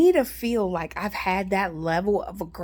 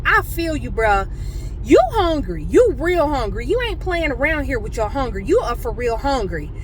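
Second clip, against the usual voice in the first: sympathetic to dude; 2 semitones higher than usual. Retold or imitated. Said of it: "I was like".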